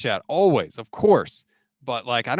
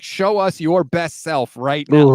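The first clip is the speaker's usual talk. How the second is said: slow, louder pep-talk urging; George Kittle; 6 dB louder, slower than usual. Retold or imitated. Tight end pumping up his teammate, emphatic urging. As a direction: push each word to pump up a teammate. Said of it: "trying to pump up Chase Young".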